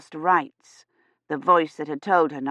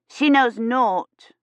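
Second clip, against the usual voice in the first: put-on interrupting child; 5 semitones higher, much slower than usual. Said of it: "Agnes interrupted".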